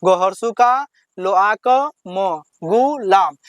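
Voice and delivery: slow, syllables run together in one go; teacher blending the syllables into a word; slow joined reading. Shown as a demonstration. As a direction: read the whole word through slowly and smoothly. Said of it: "कैसे पढ़ना है?".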